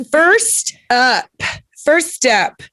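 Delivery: high game show announcer call. Pretend. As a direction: announce it like a host.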